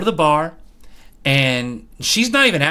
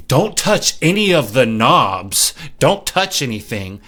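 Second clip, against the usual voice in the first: condescending; 4 dB louder than usual. Retold or imitated. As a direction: drag it out like a snooty bartender. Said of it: "being hella condescending".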